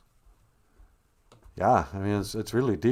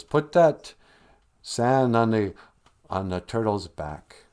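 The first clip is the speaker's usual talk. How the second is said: calling down; 3 dB louder than usual. Acted. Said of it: "he calls down and he goes".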